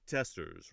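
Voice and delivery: "testers" with TEST punched and "-ers" light; stress on TEST. Shown as a demonstration. Teacher scanning a rhyme, "TESTers" stressed up front. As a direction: hit the first syllable of "testers". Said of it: "accented syllable on the test part".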